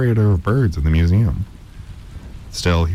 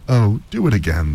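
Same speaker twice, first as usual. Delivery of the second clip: begging; 4 semitones higher than usual. Acted. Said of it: "they begged".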